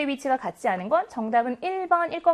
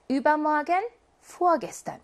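übermorgen with the über part raised, vorgestern with the vor part raised; stress on the first element; 3 semitones higher, much slower than usual. Shown as a demonstration. Teacher demonstrating front stress of time adverbs to students. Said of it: "이름절의 강세가 있어요".

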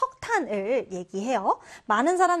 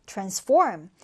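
transFORM, second syllable of "transform" stressed; 4 semitones lower than usual. Shown as a demonstration. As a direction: say "transform" with the weight on -form. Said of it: "이 단어 디귿절의 강세를 두고요".

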